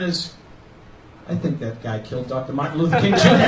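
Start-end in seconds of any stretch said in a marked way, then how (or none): 1.3-3.5 put-on Boston accent. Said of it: "everything in a Boston accent sounds racist".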